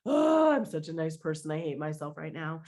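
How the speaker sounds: mock-smug voice that drops low for the self-hating end; sarcastic self-mockery. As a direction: play it as ironic self-praise turning sour. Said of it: "kind of energy".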